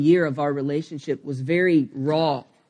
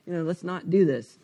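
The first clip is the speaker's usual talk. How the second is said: backpedaling; 4 semitones higher than usual. Retold or imitated. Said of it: "I start kind of backpedaling".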